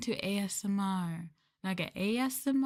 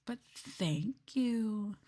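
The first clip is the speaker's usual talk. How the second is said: slow cute thanks; 4 semitones higher, much slower than usual. Acted. Drawn-out sweet thanks.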